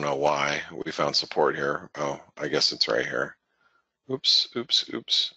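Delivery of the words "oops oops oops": startled oops. Real, not acted. Accidental click on chart.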